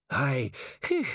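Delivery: high, halting, breathless voice; groaning old man. A narrator's reading. Aged Ponder tells Ridcully his true age, groaning. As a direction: groan it out in fragments. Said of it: "Ponder groaned".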